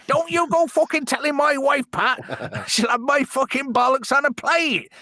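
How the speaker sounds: very high, hammed-up cartoon panic; high-pitched bad-dub character begging for secrecy; Ted Glenn spoof. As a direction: plead in a squeaky put-on comic voice. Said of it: "Ted Glenn".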